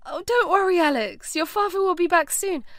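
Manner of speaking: housekeeper's consoling, upbeat voice; cheering him up. A narrator's reading. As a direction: lift the pitch to coax and comfort. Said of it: "tried to cheer him up".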